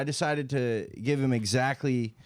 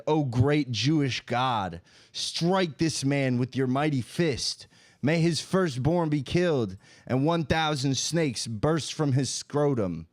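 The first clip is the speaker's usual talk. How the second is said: mock solemn curse; slower than usual.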